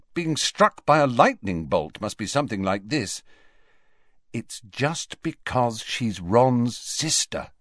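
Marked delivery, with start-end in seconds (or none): 4.3-7.5 telling himself. Acted. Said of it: "he told himself".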